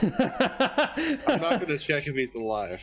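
laughing. Real, not acted. Joking amid laughter at table.

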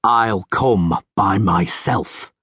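slow, resonant, commanding; resounding metallic voice. Acted. Rivian repeats to the guards, resounding metallic voice. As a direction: let it ring out slow and hard. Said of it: "in his resounding metallic voice".

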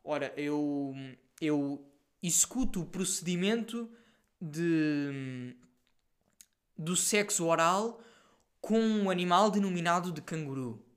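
slow, lightly pompous formal phrasing; a hint of a solemn bureaucrat, slowed down; mock formal. Shown as a demonstration. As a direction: put on a stiff official-sounding tone. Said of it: "parece que estou a dizer uma cena bué certinha".

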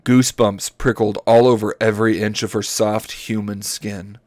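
measured, deliberate reading aloud; story narration. Acted. Host reads dinosaur romance to friends, story narration. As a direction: read each phrase out carefully.

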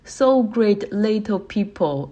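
slow, drawn-out mock praise; condescending praise. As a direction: pat them on the head with your voice, slowly. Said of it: "美国人经常说".

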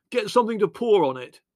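high, loud, urgent order; shouting. A narrator's reading. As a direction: shout for help against the flames. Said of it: "shouted Les".

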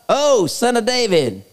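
high, drawn-out acted appeal; imitated plea. Preacher imitating the blind man addressing Jesus, imitated plea. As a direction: call out in a slow, high imitation. Contrasts blind man's cry with ruler's.

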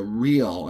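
"real" drawn out slowly with weight; stress on real. Shown as a demonstration. Coach to team-player audience, slowly stressing "real". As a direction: lean on "real". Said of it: "I emphasize the word real".

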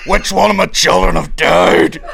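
mock Nesbitt. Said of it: "he's like".

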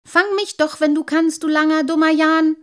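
high, loud, singsong teasing; gleeful catch-me-if-you-can taunt; taunting call. A narrator's reading. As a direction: jeer like a cheeky child. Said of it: "rief er und drehte ... eine lange Nase".

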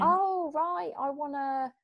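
loud, high "oh" as it clicks; sudden realisation. Acted. Client asked about the outcome they want, acted sudden realisation. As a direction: act out a client's light-bulb moment.

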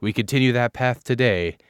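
measured podcast announcer read, spaced phrasing; scripted show intro. Acted. Host introducing the beer to listeners, announcer read. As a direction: read it out as a mock-grand introduction.

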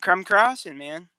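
words through a yawn. Real, not acted. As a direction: yawn while talking. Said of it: "I'm yawning".

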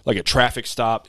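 imitating a fast-talking driver; rapid-fire talk. Delivery driver explains being pulled over to his customer, rapid-fire. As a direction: rattle it off in one breathless run. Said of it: "He's talking this fast".

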